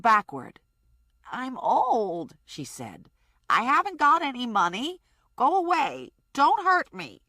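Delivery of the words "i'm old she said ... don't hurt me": put-on higher, pleading old woman; frightened old woman. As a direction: beg them to go away, rising in fear. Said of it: "old woman pleading".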